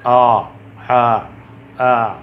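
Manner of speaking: आ demonstrated loud and drawn out; long, loud आ from mid-throat; ain letter sound. Shown as a demonstration. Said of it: "आइन की आवाज़".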